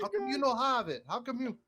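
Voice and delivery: high squeaky teasing whine; mocking whiny voice. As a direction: mimic the whiny friend. Mimics friend's complaint again.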